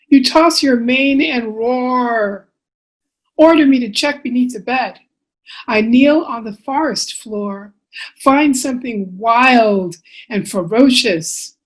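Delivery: measured storytelling with lilting phrases; picture-book reading. Acted. Author reading bedtime book to children, expressive storytelling. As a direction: read to little ones, pausing between phrases.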